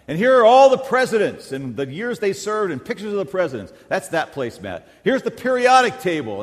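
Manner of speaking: high, loud excited rattling off of placemats; excited wife. Retold or imitated. Wife showing off new placemats, excited and high. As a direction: gush about each placemat like a thrilled wife. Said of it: "all excited".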